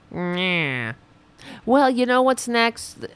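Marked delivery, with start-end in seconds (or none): 0.1-0.9 long, falling mock "nyah"; mocking bleat. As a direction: jeer with a drawn-out "nyaah". Mocking noise imitating the TV host.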